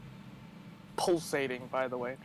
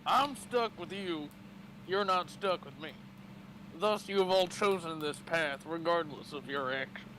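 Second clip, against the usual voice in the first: a touch of Southern gunslinger; Southern cowboy accent. Acted. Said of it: "He's Southern now".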